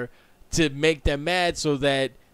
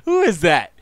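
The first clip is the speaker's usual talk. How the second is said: laughing question; 2 semitones higher, 7 dB louder than usual. Real, not acted. Laughing surprise at chat.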